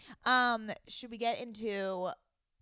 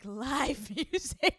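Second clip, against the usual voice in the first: mocking imitation; 6 semitones higher, 3 dB louder, much slower than usual. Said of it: "to see you be like".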